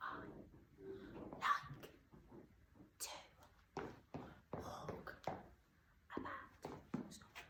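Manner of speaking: slow, barely audible whisper. Teacher showing the class how to say the sentence, really quiet voice. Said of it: "really quiet voice so barely anyone can hear you".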